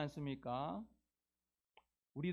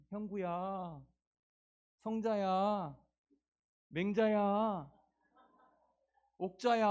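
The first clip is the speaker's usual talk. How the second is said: calling names out, slow and louder; shepherd calling; 3 semitones higher, 3 dB louder, slower than usual. Acted. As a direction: call each lost sheep by name from far off.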